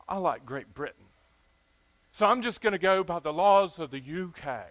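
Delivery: a light attempt at a British accent from a southern speaker; mock-British, just sketched in; a half-hearted put-on British accent. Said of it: "It's hard for somebody with a southern accent to talk like that".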